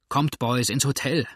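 mustache twirling villain. Acted. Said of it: "sagte der Narbige".

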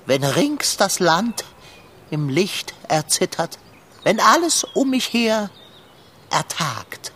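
solemn, pompous recitation with long pauses; poem recital. Acted. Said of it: "Sag dein bestes, anrührendstes Gedicht auf". (feierlich und pathetisch vorgetragen)

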